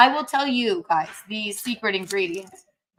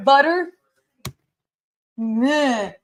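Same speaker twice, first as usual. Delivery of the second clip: mocking boyfriend; 3 semitones higher, 5 dB louder, much slower than usual. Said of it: "It was like".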